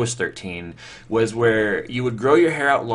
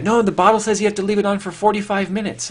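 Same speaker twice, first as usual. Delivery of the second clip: much higher, louder mock-know-it-all sister; bossy sister; 12 semitones higher, 6 dB louder, faster than usual. Older sister insists the relaxer stays on, mock prissy. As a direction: imitate her insisting with a prissy voice. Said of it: "And she's like".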